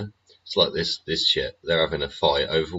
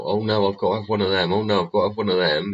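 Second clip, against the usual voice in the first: mocking trend chaser; 3 semitones higher, faster than usual. Mocking people chasing trends.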